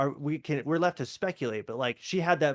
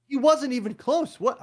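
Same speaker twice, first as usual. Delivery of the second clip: high, loud, drawn-out complaint; retold exasperation; 9 semitones higher, 5 dB louder than usual. Viewer mad about wasted plastique, retold exasperation. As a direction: complain in mock outrage, stretching it slowly. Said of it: "I get really mad about".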